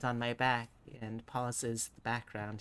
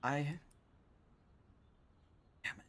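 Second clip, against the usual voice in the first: ordinary talk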